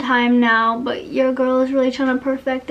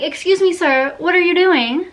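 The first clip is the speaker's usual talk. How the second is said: higher, mock-indignant "excuse me sir"; incredulous challenge; 5 semitones higher than usual. Cashier questioning a customer's price trick, mock indignant. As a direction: call him out, half amused. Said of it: "trying to finesse me".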